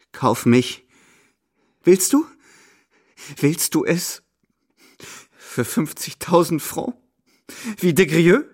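hysterical taunt. A narrator's reading. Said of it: "in krampfhaften Stöhnen".

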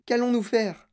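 high-pitched despairing question; high, distraught plea; moaning lament. Acted. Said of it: "gémit madame Tivy".

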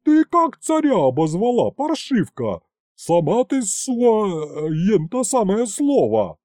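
громкий высокий медленный крик; наори на неё, выше и громче; орёт. A narrator's reading. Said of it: "снова заорала главбух". (главбух орёт на Тамарку, медленно, высоко и громко)

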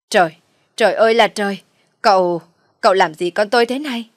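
loud staged shriek of alarm; mother bursting in, shrieking at the young man. Acted. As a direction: shriek as if catching a crime. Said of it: "bà Loan liền hét lên".

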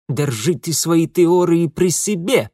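snorting retort. A narrator's reading. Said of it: "фыркнул в ответ Ингвар".

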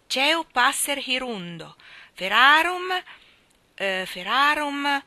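slow, stumbling recital, rising pitch; schoolboy stuck mid-lesson; halting recital. A narrator's reading. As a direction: grope for the next word. Boy stumbling through Latin.

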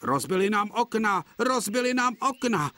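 very high, loud wailing whine; whimpering coaches. A narrator's reading. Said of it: "fňukaly vagóny". (fňukavě)

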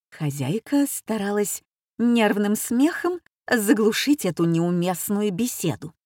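usual speaking voice

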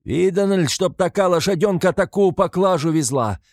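high loud outrage; indignant shout. A narrator's reading. Another onlooker protests the load, high loud shout. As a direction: protest to the crowd. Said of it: "прибавляет другой".

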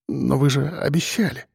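mumbled plea; mumbling. A narrator's reading. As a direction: mumble a weak protest. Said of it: "бормотал он".

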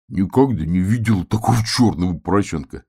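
a lightly odd barrel voice. Acted. The barrel exclaims at the black piglet. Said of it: "сказала бочка".

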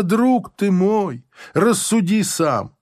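usual speaking voice

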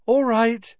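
bright, high and chirpy; cheerful carefree reply; cheerfully. Acted. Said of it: "she said cheerfully".

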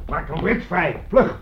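rises to a loud, high shout on vlug; urgent shout. Acted. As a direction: bark the order, last word loudest. Urgent order in crisis. (dringend bevel, luid en hoog op vlug)

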